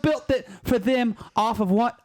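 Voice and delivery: hammed-up amateur British accent; committed British accent. Shown as a demonstration. Panelist bashing the royal family on a dare, committed British accent. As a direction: rant in a rough mock British accent. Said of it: "commitment to the British accent".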